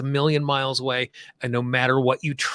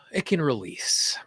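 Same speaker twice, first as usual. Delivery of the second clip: measured lead-and-repeat delivery with long pauses; guided tapping affirmations. Shown as a demonstration. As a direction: say each affirmation phrase by phrase, leaving room to repeat. Leads repeat-after-me tapping affirmations.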